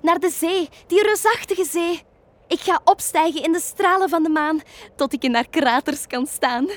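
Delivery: high, loud, grand witch voice; the witch tells the rabbits where she is flying; proud witch. A narrator's reading. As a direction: announce your dream to the world. Witch boasts of her plan.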